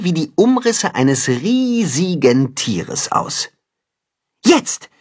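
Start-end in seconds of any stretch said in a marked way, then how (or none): 4.4-4.9 sharp, higher call of Jetzt; signal call. A narrator's reading. Timme signalling Tacho to roar, a sharp higher call. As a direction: give the signal, sharp and quick. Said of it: "gibt Timme das Zeichen".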